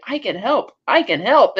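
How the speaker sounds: lightly voiced high-pitched robot. Robot repeating its only line to a dying astronaut, lightly voiced. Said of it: "his robot can only say".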